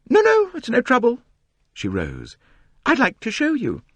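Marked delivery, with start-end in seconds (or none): 0.1-1.2 much higher, louder, self-important whine; high, complaining society novelist. A narrator's reading. Mrs Otterbourne insists. 2.8-3.8 much higher, louder, self-important whine; high, complaining society novelist. A narrator's reading. Mrs Otterbourne insists.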